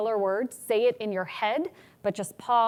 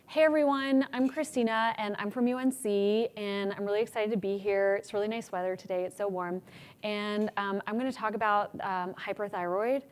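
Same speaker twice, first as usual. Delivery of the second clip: weak start; 4 dB quieter than usual. Shown as a demonstration. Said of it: "I did a lot of things that I just said we shouldn't".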